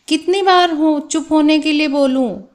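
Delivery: mock telling-off of a noisy class; exasperated teacher. Shown as a demonstration. Teacher voiced hushing noisy pupils. (शोर करते बच्चों को हल्की डाँट)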